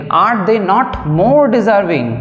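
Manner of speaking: very slow, each word drawn out; slow dictation. Shown as a demonstration. Teacher dictating to students, very slow and spaced. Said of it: "dictating the sentence".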